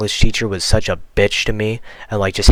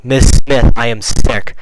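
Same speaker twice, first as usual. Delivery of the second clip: "Miss Smith" louder, "sick" firmly stressed; emphatic insistence; 4 dB louder, slower than usual. Retold or imitated. Sick student pleading again for the bathroom, emphatic.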